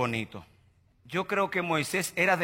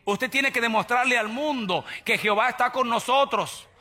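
normal talking voice

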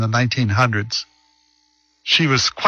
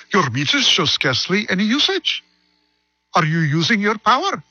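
put-on higher-pitched Irish accent meter reader; playful Irish accent, pitched up; 8 semitones higher than usual. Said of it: "That's my Irish Indian accent".

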